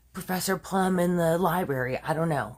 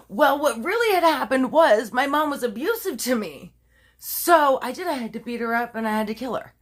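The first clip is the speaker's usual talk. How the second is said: higher-pitched imitation of a self-justifying daughter; mock pleading confession; 5 semitones higher than usual. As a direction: act out a daughter's excuse to police. Acts daughter's changed confession to police.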